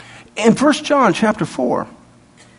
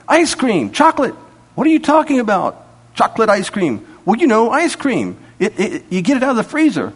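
acted dialogue; 3 semitones higher than usual.

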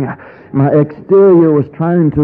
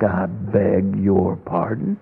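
offended reply; 6 semitones lower, 6 dB quieter, slower than usual. Retold or imitated. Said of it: "something like".

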